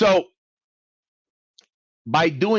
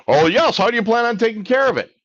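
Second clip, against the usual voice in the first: chirpy mock collector; 9 semitones higher, 6 dB louder than usual. Plays the collector on phone.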